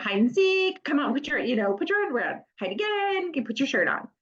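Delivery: high sing-out falling at the end of each call; playful game voice. Acted. Parent playing hide and seek while dressing child, playful. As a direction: coax a child along through a silly game. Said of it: "a little hide and seek game".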